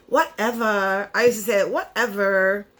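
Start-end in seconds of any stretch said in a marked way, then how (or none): 0.1-1.1 put-on drawn-out Valley girl drawl; slow, mock Valley girl dismissal. Vlogger recalling her old slang, Valley girl. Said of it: "I used to talk like that". 1.7-2.7 lightly imitated Valley girl. Vlogger quoting her younger self, Valley girl. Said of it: "I used to talk like that".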